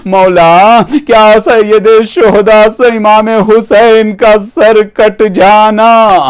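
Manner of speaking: insistent, plaintive questioning with long-drawn words; majlis lamentation. Acted. Questioner asking the Imam about Hussain's beheading, plaintive lament. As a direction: stretch out the sorrowful question. Preacher narrates mourning dialogue.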